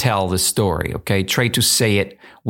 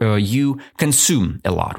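ordinary talk, nothing marked

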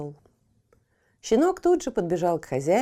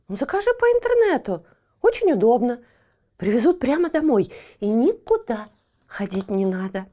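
lightly voiced Fifochka; 4 dB louder than usual. Fifochka advises online order.

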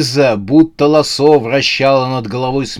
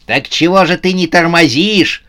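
higher-pitched demanding call; shouted challenge; 6 semitones higher, 4 dB louder than usual. A narrator's reading. Pursuers call after fleeing Новый год, shouting. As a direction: demand it of a runner.

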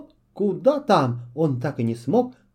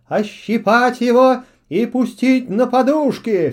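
loud, slow raging command; furious order; 6 semitones higher, 6 dB louder than usual. A narrator's reading. Witch orders guards to pluck the owl, furious. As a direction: sentence him in fury.

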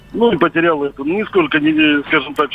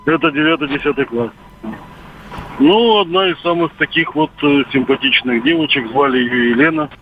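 over a landline phone. Real, not acted. Caller on radio phone line.

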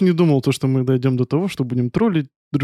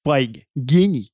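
Yuri Dud voice; 2 semitones lower than usual. Retold or imitated. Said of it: "Хочется голосом Юрия Дудя задать вопрос".

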